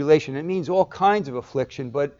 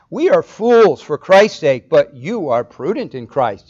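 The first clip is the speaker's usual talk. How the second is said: sarcastic; 6 dB louder than usual. Retold or imitated. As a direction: say it with biting sarcasm. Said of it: "You hear the sarcasm?".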